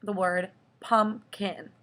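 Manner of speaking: pumpkin said slowly, syllable by syllable; teacher modelling pumpkin slowly; slow syllable demo. Shown as a demonstration. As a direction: sound out pumpkin in two beats. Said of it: "I go pumpkin".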